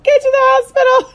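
high, loud urgent mock yell; retelling how she hollered at the characters; yelling at screen. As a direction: shout at the TV like they can hear you. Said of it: "I was, like, yelling at the screen".

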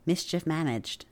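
secret password whisper. Pretend. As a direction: hush it like a spell. Whispered Harry Potter password.

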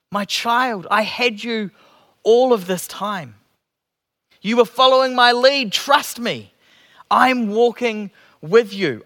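gentle voice of Jesus reassuring a doubting disciple; compassionate. Acted. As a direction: speak as a loving father comforting his child. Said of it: "I hear compassion".

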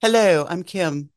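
slow, careful go at dropping the Southern accent; without Southern accent. Shown as a demonstration. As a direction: say it slowly, trying to hide the Southern twang. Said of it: "Can you talk without that accent?".

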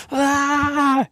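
high exultant yell; excited yell. Retold or imitated. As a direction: let it rip as you drum. Getting into drumming.

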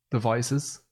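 "devices" with a clear "vice", careful; said right. Shown as a demonstration. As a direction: pronounce "devices" as dih-VICE-iz. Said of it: "There, I said it right".

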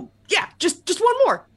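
bitter mocking high pitch; sarcastic. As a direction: spit it out sarcastically.

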